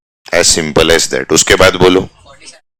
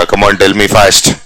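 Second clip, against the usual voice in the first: slow drawn-out urging; slow teacher prompting; slow coaxing; much slower than usual. Shown as a demonstration. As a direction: coax the class to answer. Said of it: "urging class to answer".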